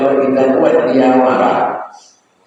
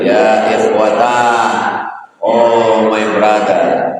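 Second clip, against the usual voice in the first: humble apology; slower than usual. Retold or imitated. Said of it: "datanglah Abu Bakar menjumpai Salman".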